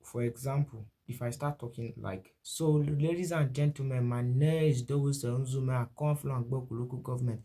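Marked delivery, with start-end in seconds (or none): 2.4-7.4 lightly put-on swindler introducing himself; a hint of a fraudster's showy charm; thief man voice. Shown as a demonstration. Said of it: "Okay, that is a thief man".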